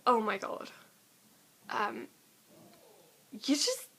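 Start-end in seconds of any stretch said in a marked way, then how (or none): 3.3-3.9 high and loud, bursting with affection; excited squeal; gushing. Real, not acted. Gushing shout-out.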